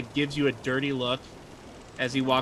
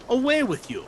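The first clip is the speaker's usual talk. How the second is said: higher, louder brush-off; disgusted dismissal; 8 semitones higher, 4 dB louder than usual. Acted. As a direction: shoo the player away in disgust. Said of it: "he looks at you just disgusted".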